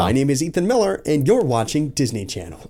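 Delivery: lightly done slow radio announcer intro. Pretend. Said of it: "that was my radio announcer voice".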